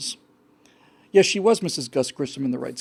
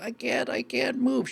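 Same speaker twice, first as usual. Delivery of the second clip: frozen with fear; 8 semitones higher than usual. Retold or imitated. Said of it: "She's absolutely frozen with fear".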